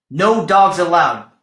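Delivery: yelled. Acted. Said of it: "Hank yelled".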